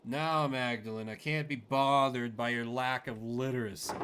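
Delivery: loud, impatient brush-off; irritated dismissal. Acted. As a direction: talk down to her, annoyed. Doctor dismisses the player.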